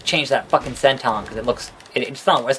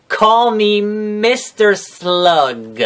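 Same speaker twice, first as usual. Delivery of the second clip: smug boss; 6 semitones higher, much slower than usual. Acted. Bossing Ric Flair around.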